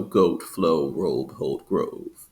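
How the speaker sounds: "goat, flow, robe, hold, grove" with American O; spaced word list, American long O in "goat"; General American O. Shown as a demonstration. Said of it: "follow the general American English".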